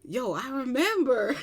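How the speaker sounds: slow, drawn-out cool reply; cool sister, unimpressed. Retold or imitated. Younger sister answering her giddy sibling, cool. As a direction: imitate an unbothered sister, stretching it out. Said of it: "but she's cool".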